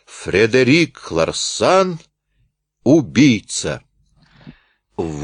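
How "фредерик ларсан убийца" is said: slow, weighty accusation; forceful shout. Acted. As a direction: drive the words home slowly. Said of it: "выкрикнул с силой". (мощный выкрик, медленно)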